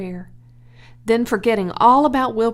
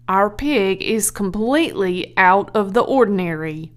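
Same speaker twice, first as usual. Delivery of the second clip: louder, earnest declaration; solemn husband voice; 5 dB louder than usual. Acted. Zuckerman tells Edith of the pig, grave. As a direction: lay it out gravely.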